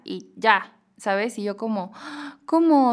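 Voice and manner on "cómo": incredulous what. Retold or imitated. Shocked at friend's blunt refusal.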